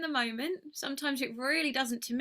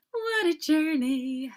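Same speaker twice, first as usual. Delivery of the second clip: slow, louder, higher marvelling repeat; drawn-out exclamation; 4 semitones higher, 6 dB louder, slower than usual. Real, not acted. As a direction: savour the words, amazed at life. Repeats phrase with growing emphasis.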